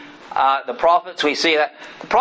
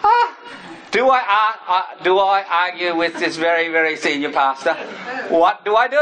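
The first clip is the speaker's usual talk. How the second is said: flustered inner panic; 2 semitones higher than usual. Retold or imitated. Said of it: "And I'm going".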